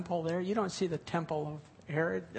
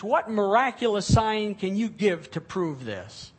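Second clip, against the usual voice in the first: indignant challenge; 3 semitones higher, 5 dB louder than usual. Acted. Religious leaders confronting Jesus in the temple, indignant and loud. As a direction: demand answers like offended leaders.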